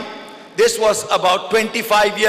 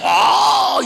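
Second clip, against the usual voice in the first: Japanese translator; 3 dB louder than usual. Retold or imitated. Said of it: "And he said".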